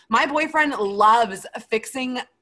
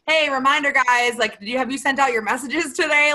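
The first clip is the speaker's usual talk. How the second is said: lightly imitated team reminder, raised pitch; chirpy reminder; 4 semitones higher than usual. Teammate prompting the group chat about messages, lightly chirpy reminder. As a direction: voice a peppy group nudge a little.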